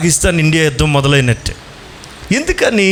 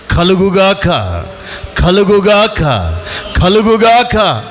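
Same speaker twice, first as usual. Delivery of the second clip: booming divine command; slower than usual. Acted. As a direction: proclaim it like God creating the world. God's creative command voiced. (దేవుని ఆజ్ఞలా గట్టిగా ప్రకటిస్తూ)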